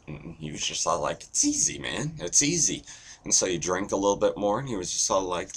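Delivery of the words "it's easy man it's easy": breezy bragging. Acted. Guy boasting in told joke.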